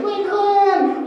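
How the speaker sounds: high shouted clan name; war cry. Retold or imitated. Kids rushing across the playground, a high shouted war cry. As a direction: bellow it as the charge.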